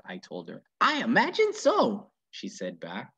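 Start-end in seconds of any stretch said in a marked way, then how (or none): 0.8-2.1 a hint of a wry old lady. Miss Nordley answers Opal.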